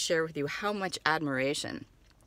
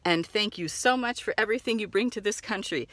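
gushing customer; 2 semitones higher than usual. Acted. Customer thanking seller.

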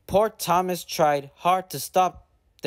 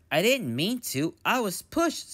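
sad engine; 5 semitones higher than usual. Acted. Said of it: "said Thomas sadly".

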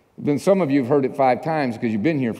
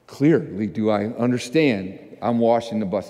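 subdued compliance; 5 semitones lower than usual. Retold or imitated. Cowed reply to screaming boss.

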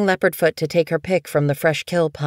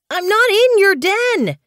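much higher, indignant little kit; a small kit standing his ground; kit protesting; 4 dB louder than usual. A narrator's reading. Tiger Kit protests to the old cat, high and indignant. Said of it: "Tiger Kit protested".

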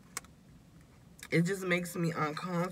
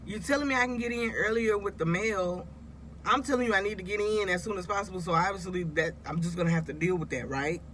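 mock exasperated complaint, pitched up; exasperated retelling; 3 semitones higher than usual. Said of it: "I was like".

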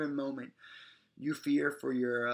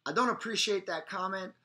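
firm; 5 semitones higher, 4 dB louder than usual. Shown as a demonstration. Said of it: "stronger and louder every time".

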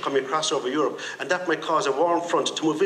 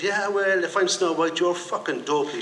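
retold shout. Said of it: "she shouts".

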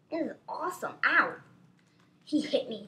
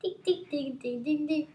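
imitated button beeps; 3 semitones higher than usual. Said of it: "you just go look down and you go".

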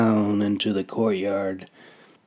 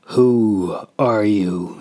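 demanding; slower than usual. Acted. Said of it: "he demanded again".

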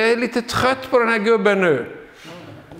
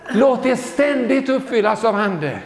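laughing joyfully; 3 semitones higher than usual. Shown as a demonstration. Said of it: "repeated verse".

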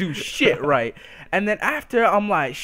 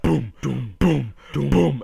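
stomp it out vocally, boom by boom; imitated footsteps; 2 semitones lower, slower than usual. Imitating her heavy steps approaching, mock thudding. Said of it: "all I hear is footsteps".

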